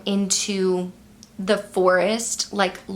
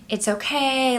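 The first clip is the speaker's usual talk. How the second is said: calm and soothing, a bit higher; 4 semitones higher than usual. Retold or imitated. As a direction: gently soothe a frightened dog. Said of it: "like, in a calm voice".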